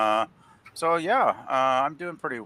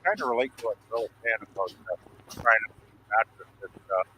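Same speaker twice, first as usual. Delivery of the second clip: cutting out. Real, not acted. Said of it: "you're cutting out P V P".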